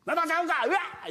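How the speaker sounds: high mock child wail; imitating a crying kid. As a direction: whine like a toddler. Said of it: "言うやんか".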